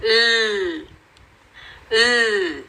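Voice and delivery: ल held with tongue behind the teeth, no vowel; phonics l sound. Shown as a demonstration. Teacher showing the l sound, tongue behind teeth. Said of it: "सिर्फ टंग को दांतों के पीछे लगा के".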